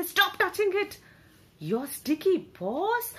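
grouchy shopkeeper yell. Acted. Grumpy bookseller scolding a bear cub, high cross yell. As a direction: snap at the cub like a cranky old bear. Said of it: "he would say".

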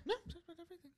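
very soft, barely audible murmur; tiny confidential undertone; hushed aside. Real, not acted. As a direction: say it under your breath to your co-host. Hushed aside checking before sign-off.

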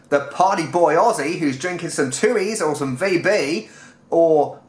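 light mock Australian accent. Describing the Aussie backpacker's drinking, Australian accent. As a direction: slip into a party-boy Aussie accent. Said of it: "I'll stop the Australian accent now".

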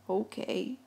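soft, small reply; meek. A narrator's reading. Mouse gives in to shouting Gus, meek. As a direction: give in meekly. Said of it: "said Mouse meekly".

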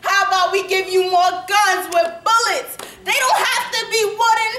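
lightly voiced Klansman offering mock thanks; a hint of a gloating villain. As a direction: deliver it as a gleeful sales pitch of hate. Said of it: "A note from the K K K".

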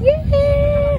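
loud happy yay; excited cheer. Real, not acted. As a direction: cheer it out, thrilled. Celebrating landing.

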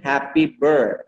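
"happy birth" slow, ending on r-coloured BIRTH; HAP-py BIRRTH; correct ir sound. Shown as a demonstration. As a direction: model "happy birth" for repeating, stressing birth. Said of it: "ลองพูดสิ".

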